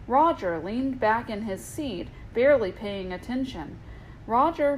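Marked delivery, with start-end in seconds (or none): 4.3-4.8 a sharp warning call of the name; teacher cautions a lazy student. Acted. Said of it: "Mister Mayonnaise warned".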